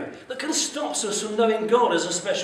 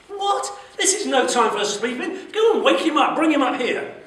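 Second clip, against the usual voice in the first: angry captain shout; 8 semitones higher, 5 dB louder than usual. Acted. Captain furious Joe is asleep.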